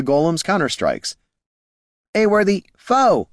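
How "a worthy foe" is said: high, stiff construct voice; formal robotic praise; golem voice. Acted. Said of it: "said the golem".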